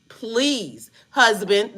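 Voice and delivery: a slightly drawn-out, pleading "husband"; mock pleading to her new husband. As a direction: beg him a little as you say "husband". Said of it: "let me stop saying it like that".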